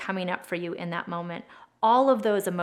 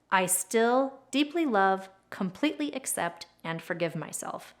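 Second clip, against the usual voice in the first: tender affirmation. Shown as a demonstration. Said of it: "The setup statement sounds something like".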